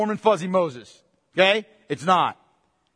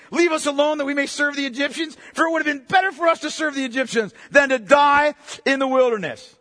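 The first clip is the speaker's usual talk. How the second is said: higher, indignant protest building to a shout; complaining Israelites; 3 semitones higher than usual. Acted. Israelites blaming Moses at the sea, indignant and rising. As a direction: accuse Moses like a frightened crowd.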